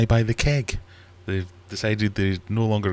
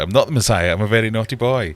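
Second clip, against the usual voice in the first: Monty Python quote; 3 semitones higher, 5 dB louder than usual. Acted. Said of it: "Monty Python quotes".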